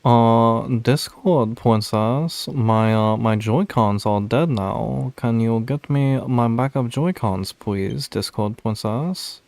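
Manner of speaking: lightly sweet princess voice; Discord princess voice. Pretend. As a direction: ask sweetly in a slow princess voice. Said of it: "doing the Discord princess voice".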